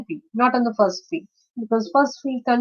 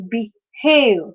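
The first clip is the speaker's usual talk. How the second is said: "behave" slowly, be-HAVE; second-syllable stress. Shown as a demonstration. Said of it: "stressing it".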